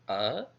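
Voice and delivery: A-nal-i-sis split into four separate syllables. Shown as a demonstration. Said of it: "Analysis has four syllables".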